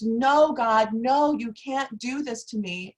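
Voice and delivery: loud, high cry that fades by the end. Retold or imitated. Woman begging as her oxygen is taken away, crying out. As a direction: retell her desperate cry. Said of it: "And she cries".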